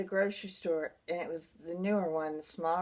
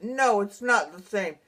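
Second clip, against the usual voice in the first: slow, louder mock protest, short of screaming; retold scream; 6 dB louder, slower than usual. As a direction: stress each word in a mild mock yell. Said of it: "scream out".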